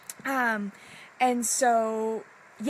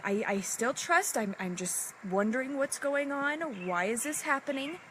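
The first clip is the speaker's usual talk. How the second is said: mildly panicked retold worry, pitch climbing; a little panicky; 4 semitones higher than usual. Telling money honey she still trusts, a little panicky. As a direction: retell anxious wondering, rising higher toward the question. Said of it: "getting a little panicky and going".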